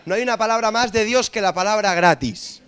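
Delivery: hammed-up pulpit delivery; mock sermon. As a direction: preach it like a televangelist to the congregation. Mock preacher proclaiming the word gratis.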